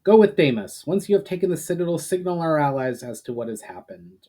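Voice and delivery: firm command, lightly voiced; a commander assigning a task, understated; ordering. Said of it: "ordered Valinar".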